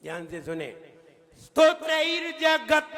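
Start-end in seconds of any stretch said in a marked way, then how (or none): 1.4-2.9 स्तोत्रैर्जगत chanted loud, every cluster crisp; model stotrairjagat. Shown as a demonstration. Teacher modelling the word for students to repeat. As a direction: ring out स्तोत्रैर्जगत clearly. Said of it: "हमने कैसे बोला?".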